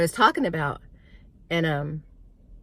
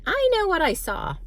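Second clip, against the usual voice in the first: much higher, loud insistence; insistent child; 13 semitones higher, 4 dB louder than usual. Retold or imitated. Child insisting to mom she saw him, high and loud. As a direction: plead as a child not believed. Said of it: "I'm like".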